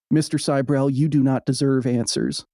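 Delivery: lightly put-on, unplaced accent, calm refusal; a faint unnamed accent, shutting him down evenly; Neil Armstrong with an accent. Host quoting the astronaut's refusal in a slight put-on accent. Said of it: "I don't know why I gave him an accent".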